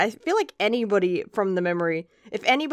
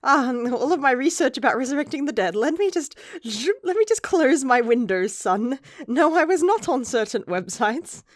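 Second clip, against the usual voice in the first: flustered dad caught out; 5 semitones higher, 3 dB louder than usual. Retold or imitated. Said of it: "He's like".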